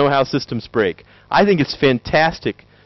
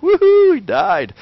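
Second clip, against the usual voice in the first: mock redneck cheer; 12 semitones higher, slower than usual. Mock nascar fan cheering.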